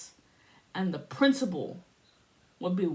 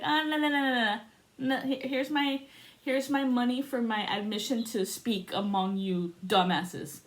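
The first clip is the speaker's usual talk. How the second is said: mock sassy protest; 4 semitones higher than usual. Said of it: "little Connie ... was like".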